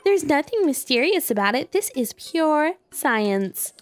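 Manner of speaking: put-on high, bubbly anime girl voice; excited anime girl. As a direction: gush like a hyper anime researcher. Voicing Purah excitedly.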